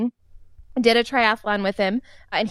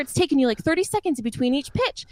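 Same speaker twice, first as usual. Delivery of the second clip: retold scolding from the mound, pitched higher; angry coach mode; 5 semitones higher than usual. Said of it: "he's in his angry coach mode".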